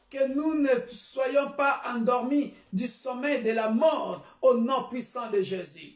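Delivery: fervent, declarative church prayer; solemn prayer petition; prayer declaration. Real, not acted. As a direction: pray it out firmly over the congregation. Leads congregation in prayer.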